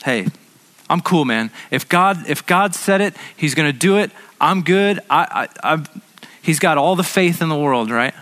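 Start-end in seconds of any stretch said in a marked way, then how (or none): 0.0-5.8 confident friend. Acted. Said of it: "the other guy goes".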